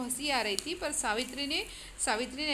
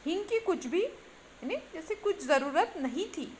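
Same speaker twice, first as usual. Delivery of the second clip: चिढ़ा हुआ बेटा; 4 semitones higher than usual. Acted. बड़े लड़के का शिकायती उद्धरण.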